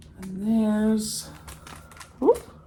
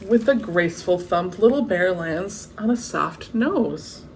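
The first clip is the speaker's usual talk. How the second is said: lively storybook read-aloud; story narration. A narrator's reading. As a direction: read it like a bedtime picture book. Reading the picture book aloud.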